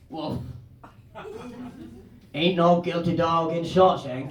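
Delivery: put-on low, slow old-convict dog; Red. Old prison dog answers the new inmate, low and slow. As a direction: drawl it low and world-weary. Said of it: "and Red goes".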